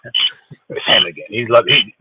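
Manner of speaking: put-on very low, weary girlfriend voice; bored girl. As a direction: drag it out, totally over him.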